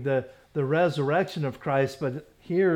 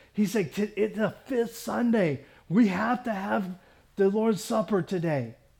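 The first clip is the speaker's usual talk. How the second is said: mock-panicked speech, much higher pitch; 5 semitones higher than usual. Retelling what another deacon told the speaker, imitating a panicked deacon. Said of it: "he's all panicked".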